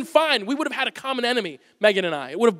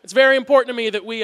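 eager agreement; 2 semitones higher, 5 dB louder than usual. Retold or imitated. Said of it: "so I all of a sudden said".

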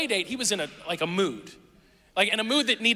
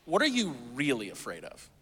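lower, softer serious ask; earnest quiet question; 7 semitones lower, 5 dB quieter than usual. Retold or imitated. Youth pastor asks staff table softly, earnest. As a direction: press gently for the real fear. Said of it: "he stopped and said".

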